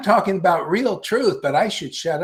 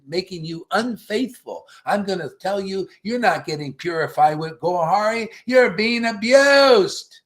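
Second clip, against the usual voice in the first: mock sweet talk; 3 semitones higher than usual. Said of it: "sweetly saying".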